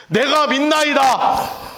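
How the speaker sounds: very slow, flat one-liner; curt dry ending. Retold or imitated. 성경에 적힌 대로 짧게 끝나는 고백을 흉내내며, 아주 느리게. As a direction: say it as if that's all there was. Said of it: "딱 이렇게 끝났겠냐고요".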